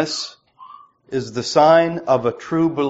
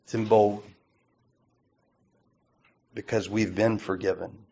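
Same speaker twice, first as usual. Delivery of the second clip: hushed conclusion; 5 semitones lower, 8 dB quieter than usual. Real, not acted. Quiet close to sermon point.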